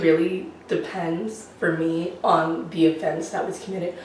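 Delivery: raspy sick voice; croaky from a cold; hoarse voice. Real, not acted. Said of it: "sorry I sound like a chain smoker".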